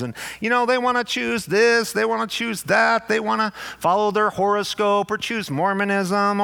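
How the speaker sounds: a light mock of a complacent parent; lax parent. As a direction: mimic the easygoing churchgoer, pitch lifting. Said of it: "this is the way it sounds".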